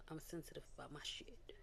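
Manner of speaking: breathy whisper of a singer's line; whispered quote. Retold or imitated. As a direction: whisper it like a confession. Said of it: "in the words of a singer".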